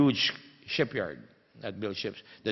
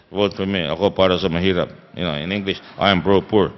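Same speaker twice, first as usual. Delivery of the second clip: imitating Estrada; 3 semitones lower, 6 dB louder than usual. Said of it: "he talked with the".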